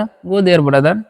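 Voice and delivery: very slow, word by word, for learners; slow dictation pace; slow model sentence. Shown as a demonstration. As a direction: spell it out slowly for the class. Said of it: "teacher models English sentence".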